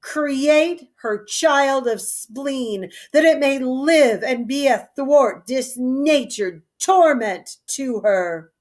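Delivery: a hint of a bitter old king cursing; measured, bitter royal curse; Lear's curse. Old king cursing his daughter, bitterly.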